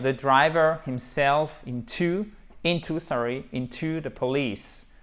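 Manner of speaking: measured, word by word model English; slow dictation for learners; slow sentence reading. Shown as a demonstration. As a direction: read the exercise out slowly. Teacher reads exercise sentence aloud slowly.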